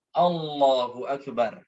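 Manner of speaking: "Allahu Akbar" said slowly in one connected breath; connected takbir. Shown as a demonstration. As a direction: join "Allahu" straight into "Akbar". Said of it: "Tetapi harus nyambung". (takbir bersambung, pelan)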